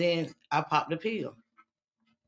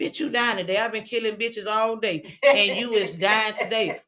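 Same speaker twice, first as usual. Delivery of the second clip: higher, building to a loud final line; a stern voice that swells at the end; God scolding; 4 semitones higher, 5 dB louder than usual. Retold or imitated. God tells her she is dying, swelling louder.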